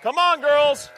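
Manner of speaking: calling sheep. Real, not acted.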